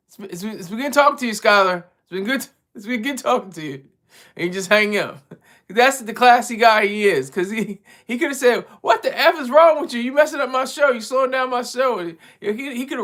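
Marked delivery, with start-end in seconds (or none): 0.1-3.8 imitating a courteous sign-off; mild, mock-courteous goodbye; polite brush-off. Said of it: "he's real polite about it for me". 8.8-12.0 higher-pitched imitation of an annoyed host; mildly hammed-up berating; mock scolding.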